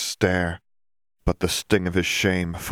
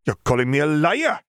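higher, louder indignant outburst; indignant son; 9 semitones higher, 4 dB louder than usual. A narrator's reading. Son outraged that his father calls him a liar, louder. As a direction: take offence, voice rising.

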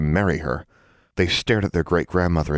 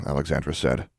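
plain reading voice

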